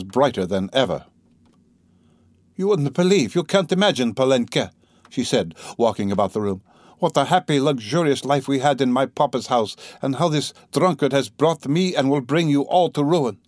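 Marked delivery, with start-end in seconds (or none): 2.5-13.4 high, urgent, rising to bitterness; feverish lament. Acted. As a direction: pour it out to the daughter, restless. Katerina's feverish tirade.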